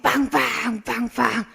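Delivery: spoken car horn honks; car honk imitation. Teacher recalling cars behind on a rainy morning, honk imitation. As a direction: imitate repeated honking. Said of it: "차들이 뒤에서 계속".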